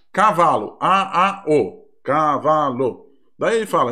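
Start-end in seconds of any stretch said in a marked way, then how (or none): 0.8-3.1 put-on slow, syllable-by-syllable child reading; child sounding out. Shown as a demonstration. Teacher imitates a child sounding out the word cavalo, slowly. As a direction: spell it out slowly like a child learning. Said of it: "Então ele escreve lá".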